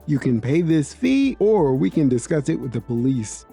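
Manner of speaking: measured manager, understated; calm explanation. Acted. Manager explaining fraud to a customer, calm. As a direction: explain it evenly and formally. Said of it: "The manager calmly explained".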